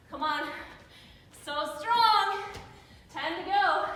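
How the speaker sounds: shouting encouragement to the class; loud cheering. Real, not acted. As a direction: belt it out like a coach. Coach cheering during squat thrusts.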